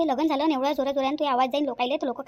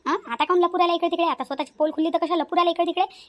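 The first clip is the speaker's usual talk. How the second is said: loud and higher, calling her to come out and face me; taunting call-out; 4 semitones higher, 4 dB louder than usual. Acted. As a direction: hurl the challenges across the house, mocking. Rohini loudly calling out her rival. (जोरात टोमणे मारत हाक)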